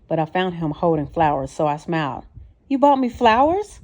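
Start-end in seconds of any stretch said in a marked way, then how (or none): 2.7-3.8 pleased surprise. A narrator's reading. She sees the flowers.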